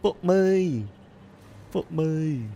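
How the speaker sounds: high, loud exasperated curse. Real, not acted. Player cursing the game in high, loud exasperation. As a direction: throw it up in disbelief.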